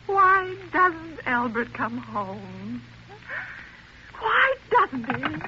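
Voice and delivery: slow, plaintive wondering; a lonely invalid wishing her husband home; anxious pleading. Acted. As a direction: drag the question out in worry. Alone, longing for husband.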